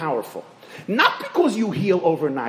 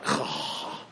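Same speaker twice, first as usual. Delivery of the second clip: resigned sigh; 9 dB quieter than usual. Retold or imitated. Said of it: "that sigh in the kitchen".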